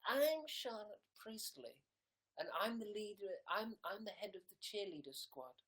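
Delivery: lightly voiced snooty head cheerleader; a hint of a mean girl sneering. Playing the viewer as a mean head cheerleader, lightly voiced. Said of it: "I'm sure you don't talk like that".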